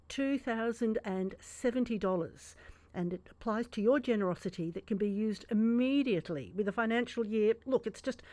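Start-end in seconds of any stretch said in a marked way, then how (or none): 0.1-2.6 slow for savouring. Shown as a demonstration. Radio host repeats the tax saving for listeners, slowly savoured. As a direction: savour each word of the figure. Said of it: "I'll say that slowly so you can savour".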